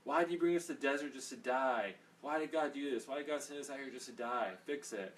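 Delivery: whining. Retold or imitated. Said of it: "they start whining".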